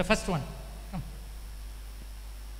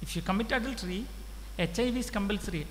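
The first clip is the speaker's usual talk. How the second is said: hushed warning; 6 dB quieter, much faster than usual. Real, not acted. Preacher drops after loud warning.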